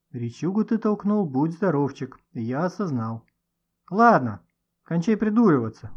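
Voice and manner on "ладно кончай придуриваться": mildly cross, a bit louder; angry. Acted. Nikita snaps at his friend to stop clowning, mildly angry. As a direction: tell him off for fooling around. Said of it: "рассердился Никита".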